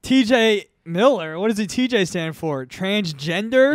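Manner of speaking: slow, unspontaneous joke delivery; slow, drawn-out repeat of a bit; lacking gumption. Pretend. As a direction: deliver the joke line without much spark. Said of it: "you had more gumption when you said earlier".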